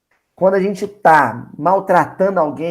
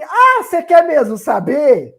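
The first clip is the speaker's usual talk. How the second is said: mock retort; 9 semitones higher, 6 dB louder than usual. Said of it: "O outro vai falar assim".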